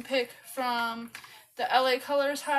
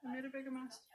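talking with mouth held open; applying mascara; 16 dB quieter, much faster than usual. Real, not acted. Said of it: "Don't mind my mascara face".

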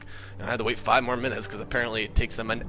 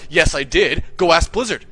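retold defiant retort; 3 semitones higher, 7 dB louder than usual. Jimmy insists in quarrel.

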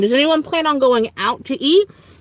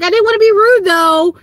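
polite inner voice; 9 semitones higher, 6 dB louder than usual. Retold or imitated. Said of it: "I was like".

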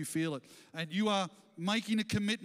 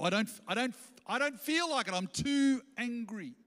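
mock whiny reluctance; 5 semitones higher than usual. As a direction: whine it like a stubborn child. Preacher mimics a reluctant listener.

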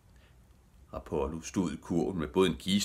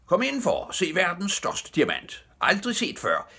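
high, loud fairground barker; showman's ringing sales pitch; shouting; 13 semitones higher, 5 dB louder than usual. A narrator's reading. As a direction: drum up a crowd for the show. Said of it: "mens han råbte".

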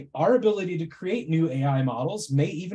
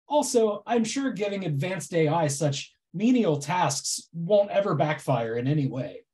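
sarcastic. Acted. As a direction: drag it out with mock sincerity. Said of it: "my incredibly sarcastic presentation".

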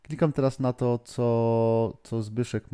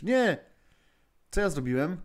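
dismayed cry; 6 semitones higher than usual. Real, not acted. Slip on computer, clicked wrong.

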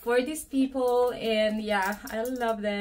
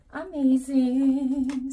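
drawn-out amazing; 3 semitones higher, 7 dB louder, slower than usual. Real, not acted. Admiring the bag.

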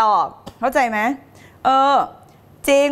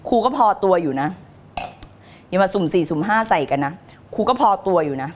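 low, cool mock threat; mock warning; 7 semitones lower than usual. Coach playfully warns anyone messing with her, low cool warning. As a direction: drop low and warn them off.

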